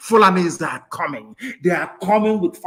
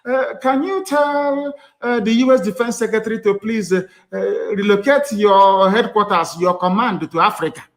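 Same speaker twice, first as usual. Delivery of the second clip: mocking halting reader; 4 semitones higher than usual. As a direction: imitate someone reading a written speech badly, hesitating. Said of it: "you know, it's written speech".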